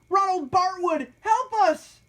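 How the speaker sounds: high, loud call for help. A narrator's reading. Captives calling the mayor for help, high loud shout. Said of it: "they called".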